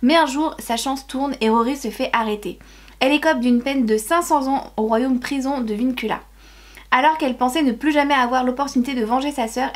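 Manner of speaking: measured book-summary reading; blurb read-aloud. Real, not acted. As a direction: read the back cover to viewers.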